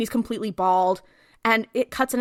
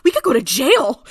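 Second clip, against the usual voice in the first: freaking out; faster than usual. Retold or imitated. Man pretending to be FBI frets to his partner, mock panicked. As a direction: ramble faster into a hammed-up worry. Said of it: "Dean starts freaking out".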